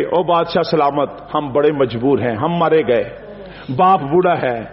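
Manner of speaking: humble pleading. Acted. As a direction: plead with bowed head.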